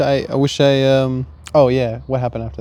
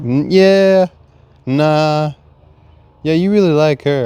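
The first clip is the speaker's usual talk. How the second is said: the heart smugly wins; heart's teasing reply; 2 semitones higher, 5 dB louder than usual. Retold or imitated. The heart taunts him again.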